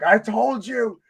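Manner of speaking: high gloating line through a laugh. Retold or imitated. Gloating to his Kong-fan buddy, laughing and high. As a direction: rub it in, laughing.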